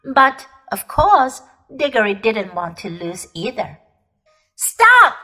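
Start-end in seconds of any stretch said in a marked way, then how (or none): 4.6-5.1 high, loud commanding shout; witch's cry. Acted. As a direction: bark it like a furious witch. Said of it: "cried the witch".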